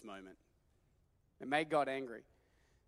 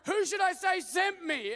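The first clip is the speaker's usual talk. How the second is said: whiny Moses; 6 dB louder than usual. Acted. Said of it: "Moses is like".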